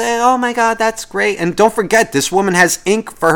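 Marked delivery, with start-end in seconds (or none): 0.0-1.4 mock high old lady. Imitating the old woman.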